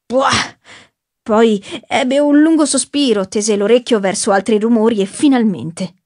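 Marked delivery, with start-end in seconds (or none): 0.0-0.6 disgusted grunt. A narrator's reading. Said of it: "un'espressione disgustata".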